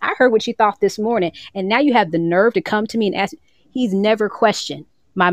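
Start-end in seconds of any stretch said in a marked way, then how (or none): 0.0-3.3 higher, hammed-up scolding God; mock stern God. God scolding a believer who asks forgiveness, mock stern. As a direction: play God wagging a finger, half joking.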